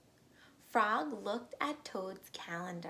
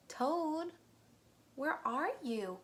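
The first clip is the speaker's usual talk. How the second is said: calling out; 7 semitones higher, slower than usual. Acted. Frog calling for Toad in the dark house, raised call. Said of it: "cried Frog".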